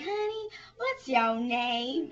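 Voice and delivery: slow, lightly voiced questioner; a hint of coaxing a little girl; pageant questioner. Asking the contestant her name, slow mock sweetness. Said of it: "And they'd say".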